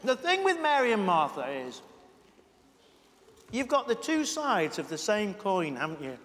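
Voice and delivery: talking through a mouthful of sandwich; chewing while speaking, mouth full. Real, not acted. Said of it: "speaking with my mouth full".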